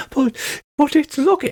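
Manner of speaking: high, stammering worried dwarf; hammed-up jittery character; nervous protest.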